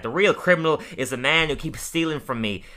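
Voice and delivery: rising into a high, loud outburst; mock shouting. Ned yelling at Lisa over the garage opener, mock rant. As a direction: build to an indignant yell.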